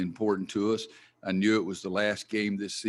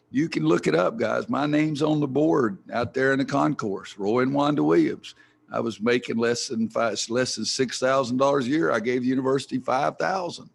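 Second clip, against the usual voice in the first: loud emphatic; 4 semitones higher, 7 dB louder than usual. Real, not acted. Indignant defense of donations.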